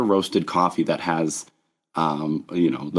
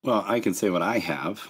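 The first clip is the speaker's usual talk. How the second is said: hoarse, croaky voice; rough throat, croak through it; frog voice; 4 dB quieter than usual. Real, not acted. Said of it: "bear with the voice a little longer".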